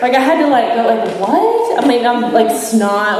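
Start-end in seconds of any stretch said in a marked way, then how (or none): 1.2-1.8 much higher, incredulous "what"; high-pitched yelp of disbelief, retold; retold tearful disbelief. Granddaughter amazed at stepfather's small request, high incredulous yelp. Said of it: "it's hysterical crying".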